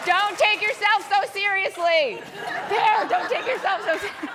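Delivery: laughing through the words, high and loud. Real, not acted. Preacher laughs at her own slip, high laughing delivery. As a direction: say it while still cracking up.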